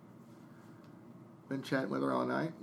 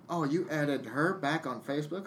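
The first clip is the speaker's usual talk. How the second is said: mild mock accusation in her voice; accusing girlfriend; 2 semitones higher than usual. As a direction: throw it at him as her jab. Girlfriend blasting him, retold.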